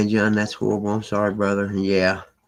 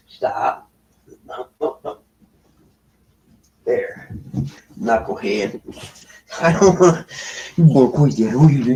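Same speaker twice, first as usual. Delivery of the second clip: loud, raised pet scolding; loud telling-off; 3 semitones higher, 5 dB louder than usual. Real, not acted. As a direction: call the excited animal off loudly.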